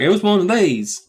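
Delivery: high, innocent mock voice; high put-on innocent tone. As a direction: present it like a child showing a toy. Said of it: "You're just like".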